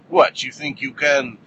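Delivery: attempted Russian accent, drawn out slowly; bad Russian accent. Russian woman challenges Hit Girl over the syringe, bad Russian accent. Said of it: "that's a bad accent".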